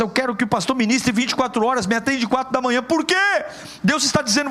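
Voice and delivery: high, driving sermon voice; fervent Portuguese preacher; preaching at full force. Acted. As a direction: push every line up like a rising altar call.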